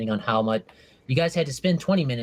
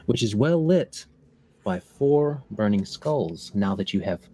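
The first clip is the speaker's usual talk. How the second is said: slow, measured description of a room; game master's scene setting; 3 semitones lower, slower than usual. Pretend. Game master describing the skull-lit room, slow scene-setting. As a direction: lay the room out slowly, phrase by phrase.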